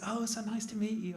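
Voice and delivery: badly faked Australian accent, friendly and high; attempted Australian accent. Blonde bachelorette greeting her blind date, poor Australian accent. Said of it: "I can't do an Australian accent".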